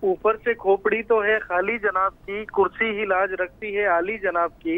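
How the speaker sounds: measured satirical couplet, line by line; verse recitation. Acted. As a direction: recite it like a poem at a mushaira.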